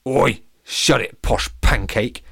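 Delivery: slow loud rough retort; rude thug. Acted. Lemon shuts up the captain, slow and rude. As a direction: tell him to shut it, slowly.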